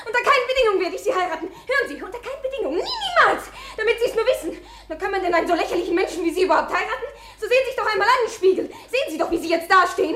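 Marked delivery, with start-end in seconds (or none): 1.5-10.2 hysterical laughing. Acted. Hysterical outburst refusing marriage.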